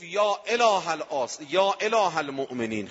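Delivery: high, drawn-out invocation; calling out to God. Retold or imitated. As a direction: call up to heaven, stretching the words.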